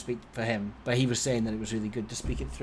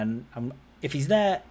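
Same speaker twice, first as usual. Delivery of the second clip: normal talking voice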